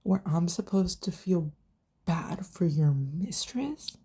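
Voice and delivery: a wife whispering her complaint to her husband; hushed retold quote. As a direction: whisper the wife's line, slowing at the end. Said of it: "and when Carmela goes".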